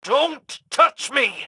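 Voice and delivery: high, slow, frightened cry; scared plea, dragged out high; panicked recoil. Acted. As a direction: pull away in horror. Creature grabs his hand.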